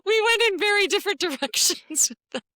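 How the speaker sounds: talking through laughter; laughing. Real, not acted. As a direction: laugh while you say it. Bursts out laughing at mix-up.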